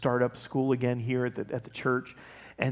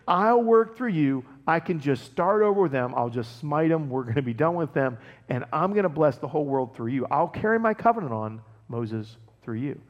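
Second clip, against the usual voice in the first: God speaking, emphatic. Retold or imitated. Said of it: "even God's like".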